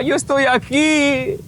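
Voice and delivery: imitated labored speech. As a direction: imitate a tormented man struggling to speak. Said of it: "No podía salirle bien las palabras".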